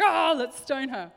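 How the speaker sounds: drawn-out, hammed-up call for blood; baying mob. Voicing the angry mob.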